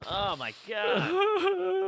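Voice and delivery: very high, drawn-out fake wail; hammed-up snotty crying; mock sobbing. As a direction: wail it slowly through pretend sobs. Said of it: "the sound of, like, snot dripping".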